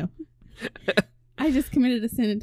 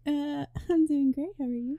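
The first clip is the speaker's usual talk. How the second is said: sultry voice; 4 semitones higher, 4 dB quieter than usual. Pretend. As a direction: purr it like a sexy receptionist. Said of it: "It's my sexy, sultry voice".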